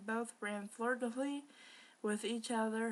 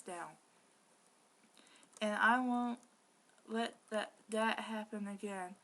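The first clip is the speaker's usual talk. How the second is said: put-on Scottish accent. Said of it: "Why is he speaking like a Scot".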